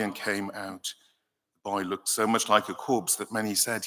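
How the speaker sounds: measured formal Bible reading; scripture reading. Acted. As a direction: read the Gospel to the congregation. Reads the Gospel passage aloud.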